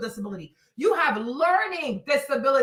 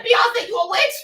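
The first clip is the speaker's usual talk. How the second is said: mock accusing yell; 7 semitones higher than usual. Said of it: "I said".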